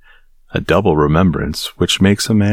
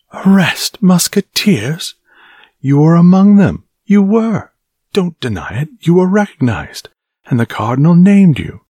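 much higher and louder, a raging shout; furious accusation; 12 semitones higher, 5 dB louder than usual. Acted. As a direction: hurl the accusation at them. Angry captain accuses his men.

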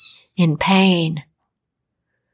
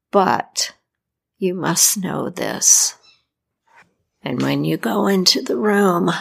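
Godfather Death. Acted. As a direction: speak as a solemn Death giving a warning. Death instructs his godson.

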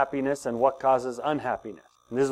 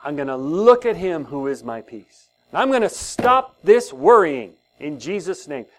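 spoken prayer. Shown as a demonstration. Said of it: "say all these things out loud".

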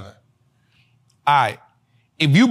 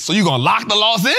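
incredulous shout; 5 semitones higher, 4 dB louder, faster than usual. Real, not acted. Disbelief at the loss logic.

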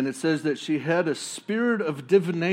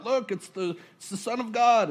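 mock crying out; 9 semitones higher than usual. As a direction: shout it like a possessed man. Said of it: "the dude starts crying out".

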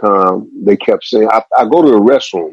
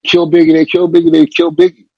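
higher, imitated panicked yell; retold yelling; 7 semitones higher than usual. Kavita shouting the news across the hospital lobby, retold yell. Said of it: "Kavita's yelling like".

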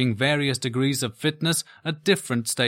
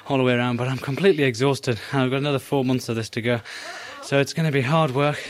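out of breath; faster than usual. Real, not acted. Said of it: "I'm out of breath".

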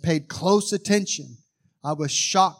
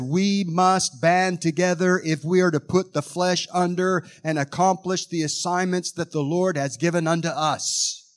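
lightly raised solemn inner voice; spirit voice; 4 semitones higher than usual. Retold or imitated. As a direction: speak as your own spirit, resolute. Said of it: "this is what I said in my spirit voice".

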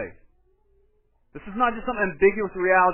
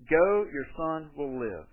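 1 calm assurance; slower than usual. Retold or imitated. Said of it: "Jesus responds to him ... uniquely".

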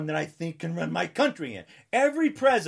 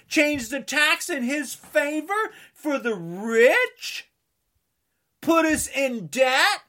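angry rant; 7 semitones higher, 4 dB louder, slower than usual. Real, not acted. Ranting against the president.

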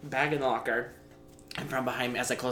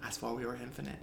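mock-poetic; 5 dB quieter than usual. Mock-poetic quote, then restarts louder.

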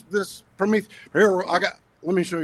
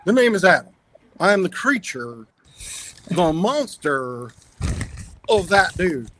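lightly voiced Frankenstein monster; Adam's monster voice. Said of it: "I gotta do it in Adam's voice".

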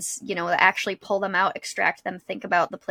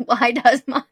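mock search voice; 4 semitones higher, 7 dB louder than usual.

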